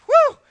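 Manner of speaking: short pulpit "woo"; excited whoop. Real, not acted. Preacher worked up mid-message, whooping. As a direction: let out a quick whoop of excitement.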